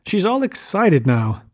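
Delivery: high, slow insistence; insist, stretching the words; insistent. A narrator's reading. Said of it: "he insisted".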